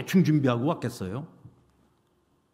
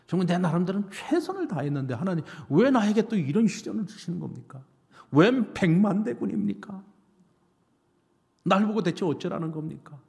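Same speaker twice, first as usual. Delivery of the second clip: higher, aggrieved plea to God; resentful protest; 5 semitones higher than usual. Acted. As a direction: cry out your grievance as the wronged king. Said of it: "하나님이 원망스럽기도 했을".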